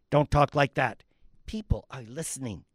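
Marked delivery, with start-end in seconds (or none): 1.5-2.6 hushed. Acted. Tree hushes the other.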